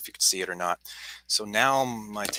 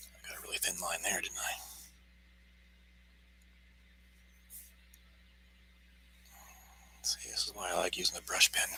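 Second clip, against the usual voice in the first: hushed, very quiet whisper; 2 semitones lower, 13 dB quieter than usual. Drawing with a brush pen and commenting on the line, talking quietly. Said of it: "I'm talking really quietly".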